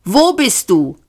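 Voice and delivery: squawky penguin questioning; quacking. A narrator's reading. Penguin Ford demanding answers from the voice, quacking. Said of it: "quakte er".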